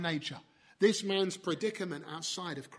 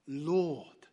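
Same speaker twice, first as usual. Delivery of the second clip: heartfelt Lord; 4 semitones lower than usual. Shown as a demonstration. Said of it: "from the heart".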